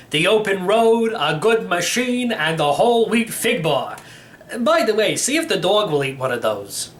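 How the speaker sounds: a hint of a cheerful old codger; a lightly voiced old uncle bragging about his car; old great-uncle voice. Uncle enjoying the ride.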